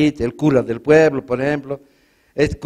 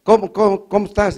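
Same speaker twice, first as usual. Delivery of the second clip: stuck on cómo, pitched higher; raised, repeating greeting; stuttering friend; 5 semitones higher than usual. Retold or imitated. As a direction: stammer out the greeting. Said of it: "mi amigo Tarta".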